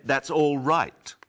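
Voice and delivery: loud, high, slow shout; mock shout for someone who misheard. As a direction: yell it out so they hear. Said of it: "There's no need to shout".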